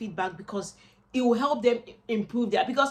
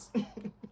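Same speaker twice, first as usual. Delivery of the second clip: short, soft laugh; dangerous laugh; 9 dB quieter than usual. Real, not acted. Vlogger bitter about student job rejections, dangerous laugh. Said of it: "I'm laughing, but my laugh is dangerous".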